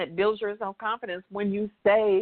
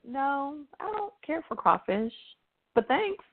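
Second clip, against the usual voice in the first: polite decline; 4 semitones higher than usual. Shown as a demonstration. Host declines an invitation to eat crawfish, politely. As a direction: ease off and add a light thank-you. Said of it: "Or I could say".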